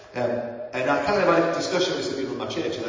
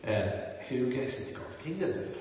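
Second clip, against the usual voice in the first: lilting Welsh voice, slowing on the repeat; Welsh accent; 4 semitones higher than usual. Retold or imitated. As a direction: quote him in a Welsh accent. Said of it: "he says this in a Welsh accent".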